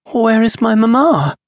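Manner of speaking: put-on a small lost girl calling out; frightened little girl. A narrator's reading. Lost child asks for mother.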